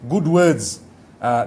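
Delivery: ordinary delivery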